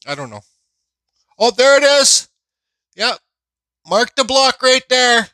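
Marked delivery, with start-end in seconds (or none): 1.4-5.3 surprised. Real, not acted. Finds the hidden signature.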